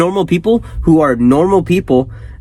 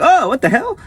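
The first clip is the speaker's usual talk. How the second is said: laughing disbelief; 11 semitones higher than usual. Retold or imitated. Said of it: "He's like".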